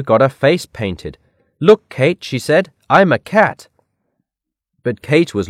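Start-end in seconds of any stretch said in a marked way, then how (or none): 1.6-2.7 higher, louder call for attention; lively storybook exclamation; excited showing off. A narrator's reading. Excited girl shows off face paint. 2.9-3.7 higher, louder storybook voice; lively little boast; proud announcement. A narrator's reading. Girl shows off face paint.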